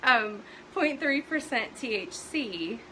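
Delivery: winded, laughing through it; out of breath. Real, not acted. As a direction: catch your breath, slow. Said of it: "I'm all out of breath now".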